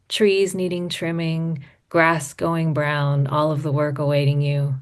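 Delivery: measured literary reading with lingering line ends; poetry reading. Acted. Poet reads audience her letter to Dad, measured poetry reading. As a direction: read it as a letter poem, phrase by careful phrase.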